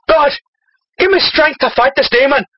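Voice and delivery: hammed-up Irish plea; Irish accent. Irishman prays before fighting demon, hammy Irish accent. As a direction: pray aloud in a broad Irish brogue. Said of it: "his feisty Irish spirit decides to attack them".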